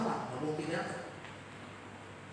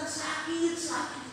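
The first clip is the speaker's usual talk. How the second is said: much higher pain cry, less faint; a higher, more urgent retold cry; mock pained cry; 12 semitones higher, 3 dB quieter, much slower than usual. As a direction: cry out in labour pain, pitched high. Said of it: "teriak lagi kesakitan".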